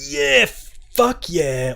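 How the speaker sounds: hammed-up excited cheer; mock hype. Mocking a developer's hyped cheer. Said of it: "one of them is like".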